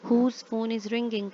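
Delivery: slow example reading. Shown as a demonstration. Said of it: "reading the example sentence aloud".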